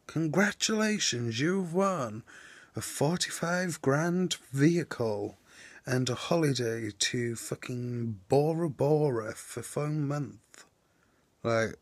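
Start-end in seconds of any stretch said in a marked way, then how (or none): 0.1-10.6 lightly hammed-up prize announcer, slowing down; a mild parody of a prize-winning email; mock spam email. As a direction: read it like a cheesy scam email, drawn out. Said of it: "my emails are literally only ever like".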